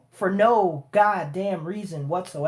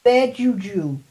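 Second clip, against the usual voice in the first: high mock villain voice, cursing; laying a curse; 5 semitones higher than usual. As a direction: ham up a cackling curse. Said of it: "she's like".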